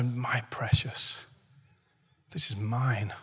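low, slow, possessive creature voice; Gollum. Acted. Preacher shows greed taking over, Gollum impression. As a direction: drop low and hoard the words jealously. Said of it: "like a little Gollum".

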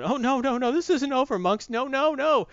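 high, taunting Goblin crow at the monks; gloating villain. Retold or imitated. Goblin taunting the monks who think he lost, high mocking voice. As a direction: sneer it out like a cackling villain.

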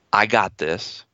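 I got this, said low and unsure, a mild scared tone; whisper-thin hope: I got this, not believed; feared voice. Shown as a demonstration. Therapist showing the frightened voice saying I got this, mildly uneasy. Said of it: "my feared, feared voice is gonna come up".

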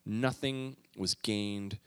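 measured, slowing Bible reading that sinks toward the end; scripture reading. Acted. Preacher reading Ecclesiastes to the congregation, measured.

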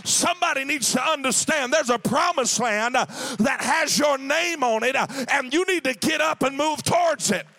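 fervent preacher at full voice; preaching. Acted. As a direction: preach it out over the organ. Preaching with music behind.

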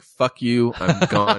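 high, exaggerated mock yell; quitting outburst. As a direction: storm off in a hammed-up huff. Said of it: "I was just snapped".

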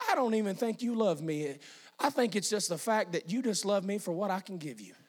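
quietly hurt, imitating a father; hurt reproach. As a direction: say it low and soft, a wounded dad.

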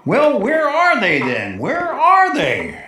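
excited. Acted. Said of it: "don't get excited".

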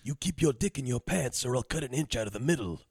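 menacing threat. Retold or imitated. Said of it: "And then he goes".

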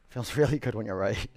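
chuckling through the words; laughing. Real, not acted. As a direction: laugh as you say it. Repeats phrase with a laugh.

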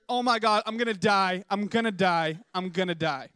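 hammed-up wail of an overstuffed eater, sinking as it repeats; mock dying agony. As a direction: melodramatic bellyache lament. Acting out overeating agony.

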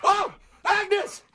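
high, loud fake shouts of joy at finding the dog; hammed-up joyful relief. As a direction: overplay the relief, calling the dog's name. Prankster fakes finding the lost dog.

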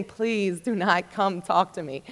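soft, slow, hopeful plea under the breath; quiet pleading. Retold or imitated. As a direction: beg quietly that she walks past. Dreading the girl's visit.

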